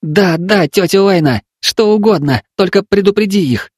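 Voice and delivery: put-on high, earnest boy's voice; insisting child. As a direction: insist you're not joking. Boy urging.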